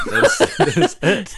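talking through a laugh; real amused laugh. Real, not acted. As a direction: laugh out the words. Laughing at the moral.

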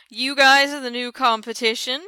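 haughty and a bit stuck-up; snooty voice. Retold or imitated. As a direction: say it snootily like a rival band. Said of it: "in that kind of snooty voice".

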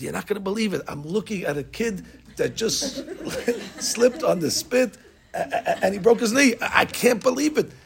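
high, laughing, breathless disbelief; boy phoning the rabbi, laughing in disbelief; laughing shock. Retold or imitated. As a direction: blurt it out through laughter.

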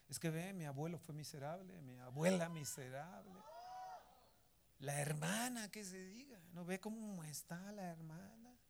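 imitando una queja, con subidas de tono; queja criticona. Acted. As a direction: critica como quien chismea, con sonsonete. Imita a quienes critican a familia. (queja criticona imitada)

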